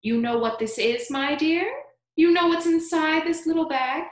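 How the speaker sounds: high, loud, mysterious questioning; coaxing old man, pitched high; creaky old man. A narrator's reading. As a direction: tease a secret in an old man's voice.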